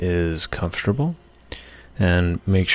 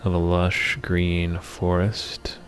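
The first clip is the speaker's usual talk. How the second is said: measured meditation voice with long pauses between phrases; guided meditation. Acted. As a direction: lead the listener through the imagery phrase by phrase, unhurried. Leads a guided meditation for anger.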